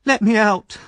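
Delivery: very high, loud furious yell; locked-in boy shouting from the cellar. A narrator's reading. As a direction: pound the door and demand freedom. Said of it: "he shouted from the cellar".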